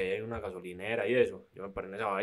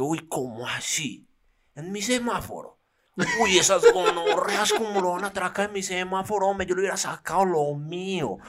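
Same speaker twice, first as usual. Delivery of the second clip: put-on much higher, loud, indignant boy voice; outraged kid; 9 semitones higher, 8 dB louder than usual. Kid on a bike outraged at the robbers, higher and louder. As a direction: play the ten-year-old fuming over his turf. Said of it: "Es que".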